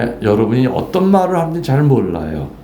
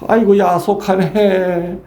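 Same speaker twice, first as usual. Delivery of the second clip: mother's lament; 5 semitones higher than usual. Retold or imitated. Priest playing the fretting mother in the story, in a high mock wail. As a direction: wail like a mother fretting over her daughter.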